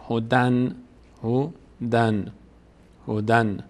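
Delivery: هدن in two syllables, ending in a clear N; tanvin demo. Shown as a demonstration. Teacher showing the tanvin "an", careful syllable demo. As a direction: say "ho-dan" for هدن slowly and evenly. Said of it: "تنوین ان داره".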